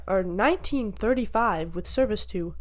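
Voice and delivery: soft rounded announcer voice; emphasize like a gate announcement; airport announcer voice. Shown as a demonstration. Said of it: "the soft rounding of your voice, but also, like, emphasis".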